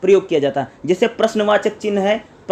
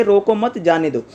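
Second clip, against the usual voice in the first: short break after "मत" in "रोको मत, जाने दो"; comma pause. Shown as a demonstration. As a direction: lift "रोको मत", pause, then let "जाने दो" fall. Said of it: "कोमा लगेगा".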